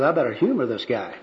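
understated aside; aside to himself. Acted. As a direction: say it under your voice, to yourself. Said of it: "to himself".

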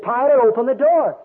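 mock parental order; mother calling out. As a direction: imitate an exasperated mom calling her child. Mother calling to locked-in child.

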